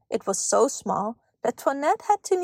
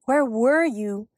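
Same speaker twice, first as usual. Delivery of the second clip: slow, mildly worried question; reproachful sigh; slower than usual. A narrator's reading. Mother greeting her late daughter, reproachful sigh. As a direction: draw it out like a fretting mother. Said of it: "she sighed".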